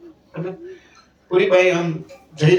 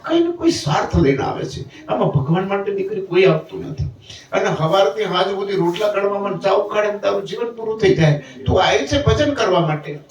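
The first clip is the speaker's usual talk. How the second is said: earnest reproach; 3 semitones higher than usual. Retold or imitated. Guru scolds disciple's wasted life.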